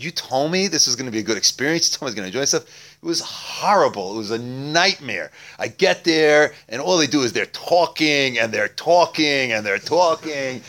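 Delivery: indignant rant building to high, loud outrage; livid. Acted. Beggar fuming at his friend after the Seder, livid. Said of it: "He's just livid at him".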